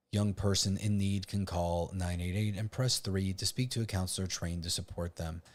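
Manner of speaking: deliberately monotone reading. Pretend. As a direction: read it out in a dull, even monotone. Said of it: "reading this in a monotone, uh, voice on purpose".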